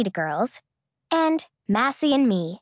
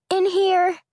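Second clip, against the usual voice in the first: higher, louder muffled call; 9 semitones higher, 4 dB louder than usual. A narrator's reading. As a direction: call from behind a closed door. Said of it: "Massey's muffled voice came through".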